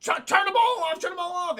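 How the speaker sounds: high, urgent stammered command; frantic order. Retold or imitated. Droid told to stop compactors, frantic urging. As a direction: stumble in, then urge it loudly.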